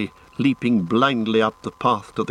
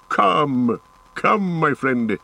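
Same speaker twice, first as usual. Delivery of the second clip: drawn-out, higher-pitched coaxing; softer coaxing; 5 semitones higher, much slower than usual. A narrator's reading. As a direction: coax a reluctant friend, slowly. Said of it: "in a softer voice".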